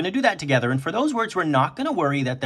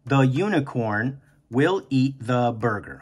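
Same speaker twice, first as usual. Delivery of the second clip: slow rereading. Shown as a demonstration. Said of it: "before I even start my sentence".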